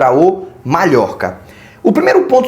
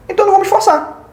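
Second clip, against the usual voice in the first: much higher-pitched, as an imagined team's verdict; dismissive mock conclusion; 12 semitones higher, much faster than usual. Mid-table team justifying saving itself against Barcelona, high mock dismissal. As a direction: jump up high to voice the team opting out.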